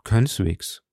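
composed, understated denial; calm. A narrator's reading. Athos answers the indignant commissioner, calm and composed. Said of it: "versetzte Athos ruhig".

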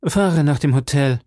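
curt, cold order; cold command. Acted. Milady orders the coachman, cold curt command. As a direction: dismiss it coldly. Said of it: "rief dem Kutscher kalt zu".

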